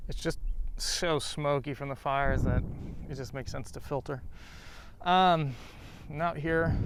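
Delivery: muffled behind a mask; through a face mask. Real, not acted. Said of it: "Hopefully you can hear me through this mask".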